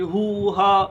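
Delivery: short pained grunts, ho and ha; groan sounds. Shown as a demonstration. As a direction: grunt as if getting up. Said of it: "اس کی آواز نکل آتی ہے".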